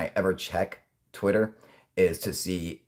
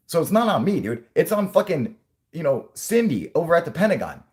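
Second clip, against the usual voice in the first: higher, louder, exasperated defence; whiny young staffer; 9 semitones higher, 5 dB louder than usual. Pretend. Jim protesting to his boss, high and exasperated. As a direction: plead that it's not your fault.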